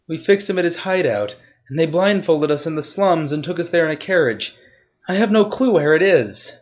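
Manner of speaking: high, loud blubbering cry. Acted. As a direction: wail it out, beaten and pleading. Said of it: "He was blubbering".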